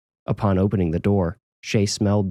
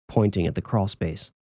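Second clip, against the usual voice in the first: usual speaking voice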